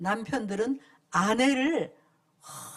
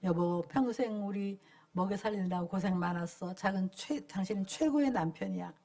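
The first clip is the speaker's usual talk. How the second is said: tender thanks; 6 semitones lower, 7 dB quieter than usual. Shown as a demonstration. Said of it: "그리고 아내들은".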